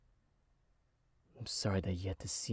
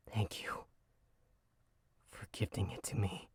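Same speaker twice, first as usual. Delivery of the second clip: whispered thanks. Acted. Exhausted patient whispering thanks to the girl who played for him. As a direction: barely voice the thanks as strength fades.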